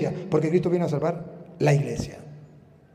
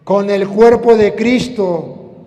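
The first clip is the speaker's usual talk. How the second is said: raised, emphatic pulpit delivery; fervent preaching; 6 semitones higher, 8 dB louder than usual. Acted. Preacher warning about the devil's plan, fervent preaching. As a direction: drive the warning home to the congregation.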